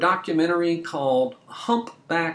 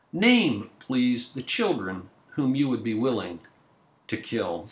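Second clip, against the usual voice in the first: poem reading. Acted. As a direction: read each question solemnly, with weight. Reads a poem aloud.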